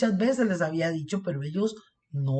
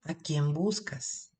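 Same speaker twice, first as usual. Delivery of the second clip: angels gently asking Mary; gentle tender question; slower than usual. Acted. Esta frase tan linda.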